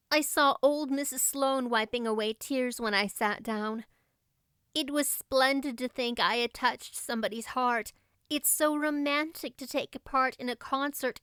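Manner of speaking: put-on a thrilled romantic girl reliving her big night; eager girl Anne.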